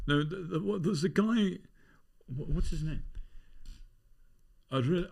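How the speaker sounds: high, lilting Scottish accent. Shown as a demonstration. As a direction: imitate a gentle, hesitant Scottish speaker. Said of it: "nice guy who talks like that".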